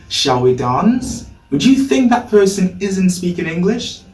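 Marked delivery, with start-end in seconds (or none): 0.1-1.3 slow, linked "Shall we dance?" with a weak "we"; slow model sentence. Shown as a demonstration. Teacher modelling the sentence slowly for learners. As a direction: say it slowly so students can copy. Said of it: "If someone says to you".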